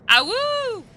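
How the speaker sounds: high loud wolf howl. Pretend. Calling the name like a howl.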